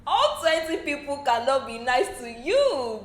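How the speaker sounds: slow, deliberate reality check; talking sense to an upset housemate, slowly; slow matter-of-fact. Retold or imitated. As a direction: spell it out plainly to her. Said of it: "I'm like".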